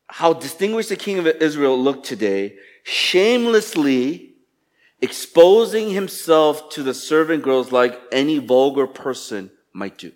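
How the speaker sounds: sarcastic quote. Acted. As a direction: read the wife's scolding with a light sneer. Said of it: "she says".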